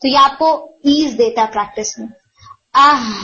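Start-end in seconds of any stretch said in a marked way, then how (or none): 2.7-3.1 آہ with a glottal start and breathy ساکن ہ at the end; ساکن ہا کی مشق; sukun demo. Shown as a demonstration. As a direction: stop on the ہ, just breath. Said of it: "آہ بول کے ہاں ایڈ اپ".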